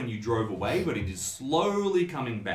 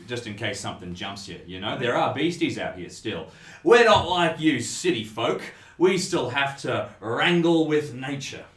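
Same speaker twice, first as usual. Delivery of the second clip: hardy country local; 5 dB louder than usual. Acted. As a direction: warn the city folk like a seasoned local.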